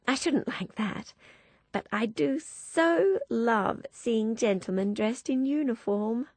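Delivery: put-on breathless girlish enthusiasm, mild; a hint of giddy debutante; excited girl. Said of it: "curls shaking excitedly".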